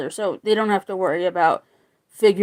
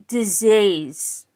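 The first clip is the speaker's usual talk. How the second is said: proper British. Shown as a demonstration. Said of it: "proper British".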